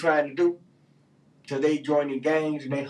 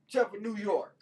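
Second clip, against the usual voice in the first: loud, high outraged rant at New York; shouting in disbelief about a rat czar; 9 semitones higher, 5 dB louder than usual. Real, not acted. Ranting at New York's rat czar.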